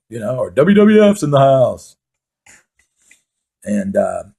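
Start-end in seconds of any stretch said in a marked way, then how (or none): 0.5-2.0 slow, loud, higher hype announcer call; booming strip club PA intro. Retold or imitated. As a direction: announce it over the loudspeaker. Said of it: "they would announce over the loudspeaker".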